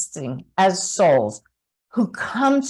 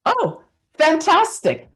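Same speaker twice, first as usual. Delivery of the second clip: bright exclamation; 8 semitones higher than usual. Retold or imitated. Quoting the medium's reaction.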